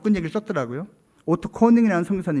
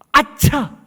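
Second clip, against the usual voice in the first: sudden realization; 8 semitones higher, 6 dB louder, much slower than usual. Retold or imitated. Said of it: "이 선교사가".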